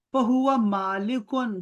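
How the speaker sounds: فہو عابدن stretched out very slowly; slow Arabic citation. Shown as a demonstration. Teacher modelling the doer form for Talha, very slow. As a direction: draw out فہو عابدن like a recitation. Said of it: "drawn-out Arabic model form".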